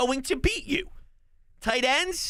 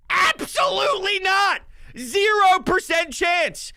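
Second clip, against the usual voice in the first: emphatic shout; 8 semitones higher than usual. Real, not acted. Fan scoffing at the Patriots' chances.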